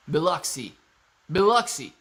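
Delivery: Biloxi with a clear BILL at the front; sounded-out Biloxi. Shown as a demonstration. Sounding out the town for chat, Biloxi with a full first syllable. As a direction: say Biloxi as Bill-ucksy, firmly. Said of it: "is how it sounds when you say it".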